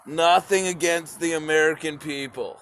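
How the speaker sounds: same line again, steady and earnest with no laugh; mean it this time, calm and sincere; sincere clarification. Real, not acted. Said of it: "I wanna clarify that".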